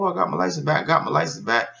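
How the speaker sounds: high, bright-eyed repeat of good news; excited bragging. Retold or imitated. Telling coworkers about the license, excitedly. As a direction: show off the news with glee. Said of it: "I was all excited".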